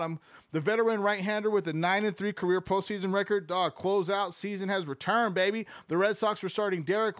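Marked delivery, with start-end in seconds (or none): none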